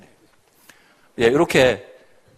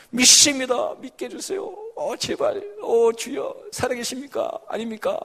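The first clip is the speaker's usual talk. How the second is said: much higher, anguished pleading to God; desperate old prayer; 7 semitones higher than usual. Retold or imitated. Woman reenacting her past frantic prayers to God, high anguished. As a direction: cry out the doubting prayer, half-acted. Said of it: "뭐 이런 거 기도했는데 지금은 아니에요".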